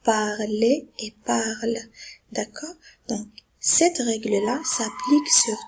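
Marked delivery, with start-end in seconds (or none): 0.0-1.8 "Parler" ending on é, then "parle" ending silent; contrasting endings. Shown as a demonstration. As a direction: model two syllables in "Parler", one in "parle". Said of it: "E Z ici se prononce E".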